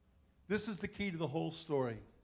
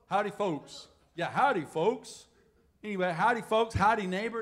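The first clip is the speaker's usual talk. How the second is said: East Texas howdy; 3 semitones higher, 6 dB louder than usual. Shown as a demonstration. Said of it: "it's all East Texas slang".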